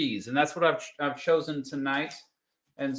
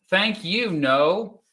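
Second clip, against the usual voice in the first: higher "Thank you" with a rise; excited thanks; 5 semitones higher, 4 dB louder, much slower than usual. Real, not acted. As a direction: thank them brightly. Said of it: "repeated thanks".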